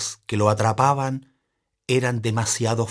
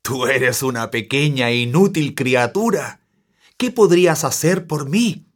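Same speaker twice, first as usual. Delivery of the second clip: león burlón; 5 dB louder than usual. Acted. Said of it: "El león rugió otra vez, estremeciéndose de risa".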